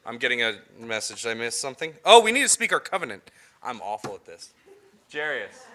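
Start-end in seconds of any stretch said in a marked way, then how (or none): 2.0-3.3 surprised. Real, not acted. Realizes a missed step.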